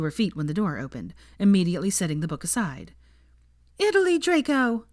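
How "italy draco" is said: shrill high cry of his name; high-pitched outburst. A narrator's reading. Hermione confronting Draco at the door, high-pitched. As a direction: burst out far higher than intended. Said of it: "her voice much higher than she expected".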